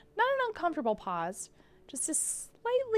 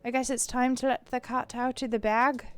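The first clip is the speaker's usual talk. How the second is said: lightly put-on Irish accent; a rough go at Irish. McMurphy confessing to Kara, slight Irish accent. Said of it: "maybe my Irish accent will get better".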